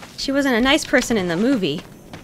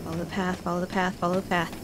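much softer repeated self-reminder; muttered to self; 4 semitones lower, 10 dB quieter, faster than usual. Real, not acted. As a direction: mutter it to keep calm.

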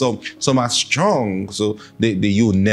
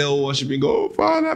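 mock worshipper; faster than usual. Preacher imitating someone carried away in worship, mock worshipper.

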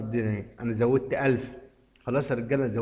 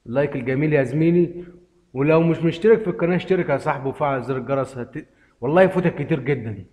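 louder upbeat call to subscribe; subscribe plug; 5 dB louder than usual. Real, not acted. Youtuber urging viewers to like and subscribe, louder pitch. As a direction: sell the subscribe button hard.

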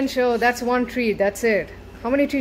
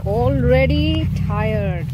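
slow drawn-out; 2 semitones higher, 4 dB louder, much slower than usual. Shown as a demonstration.

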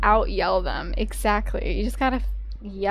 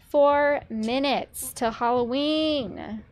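slow, stretched excited call of "Four"; drawn-out announcement; much slower than usual. Shown as a demonstration. Telling chat the Halloween countdown, slow and excited. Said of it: "It's actually four minutes till Halloween".

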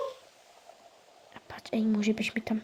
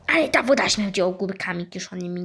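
louder and fast, insisting; insistent whine; 3 semitones lower, 4 dB louder, faster than usual. Pretend. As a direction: push the complaint again, pestering. Child repeats complaint insistently.

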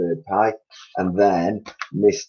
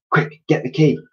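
called out; 7 semitones higher than usual. A narrator's reading. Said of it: "Mugglewump called out".

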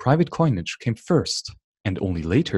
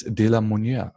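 De la Monnaie in a French accent. Shown as a demonstration. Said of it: "My French accent".

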